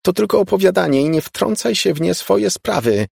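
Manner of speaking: high shouted retort; high mock shout. A narrator's reading. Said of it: "krzyknęła Laura".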